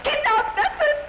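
delighted. Acted. Sudden delighted idea.

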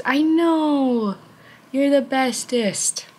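slow, high doting praise; pet praise. Real, not acted. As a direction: dote on the cat slowly and high. Praising the cat.

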